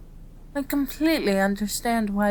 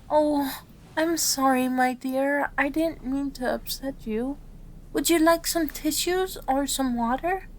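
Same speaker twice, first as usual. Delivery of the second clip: higher-pitched, soothing sympathy; concerned apology; 6 semitones higher than usual. Acted. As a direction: apologise gently to someone you have upset. Apologising to an upset patient.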